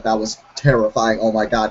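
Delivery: put-on a light Middle Eastern accent, shaken. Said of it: "getting a Middle Eastern accent right now".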